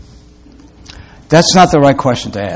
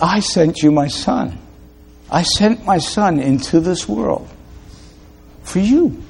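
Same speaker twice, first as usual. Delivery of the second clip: softer, slightly raised preaching voice; tender preaching; 4 semitones higher, 7 dB quieter than usual. Real, not acted. Preacher giving God's answer to sufferers, soft preaching. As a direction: give the Father's answer softly, rising at the end.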